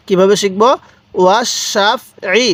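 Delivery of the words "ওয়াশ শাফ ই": ওয়াস সাফ ই with a thick "sh" into সাফ; thick shin. Shown as a demonstration. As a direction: recite ওয়াস সাফ ই in separate syllables, heavy sh. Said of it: "শিনটা উচ্চারণ একটু মোটা করে করছি".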